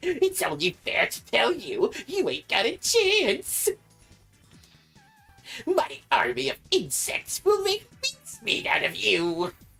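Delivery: very high, strained voice swooping around. Voicing a rival duelist taunting before a match: Weevil Underwood voice. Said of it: "I have to really strain my voice to do Weevil's voice".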